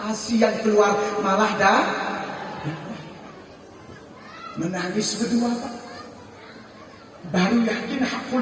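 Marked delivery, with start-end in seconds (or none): 0.0-5.7 impassioned wife. Acted. Wife telling her husband why he feels ashamed, fervent. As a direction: pour it out, passionately.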